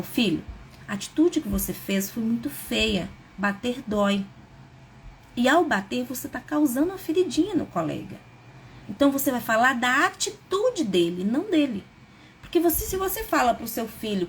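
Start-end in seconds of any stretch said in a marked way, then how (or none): 0.0-8.2 right way, calm. Shown as a demonstration.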